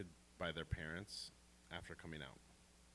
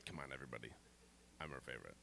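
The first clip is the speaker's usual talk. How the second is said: hushed, lower conspiratorial aside; whispered aside; 7 semitones lower, 10 dB quieter, much faster than usual. Real, not acted. Telling the audience a secret, whispered. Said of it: "whisper aside to audience".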